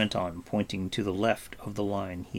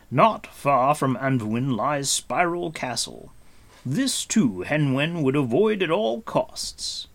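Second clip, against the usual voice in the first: higher, weighty warning; Gwydion; 6 semitones higher, 4 dB louder than usual. Acted. Gwydion warns of Spiral Castle.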